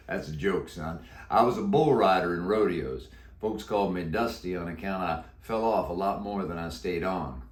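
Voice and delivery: put-on a croaky old Western cowboy; deep croaky voice. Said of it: "He answered in a deep, croaky voice".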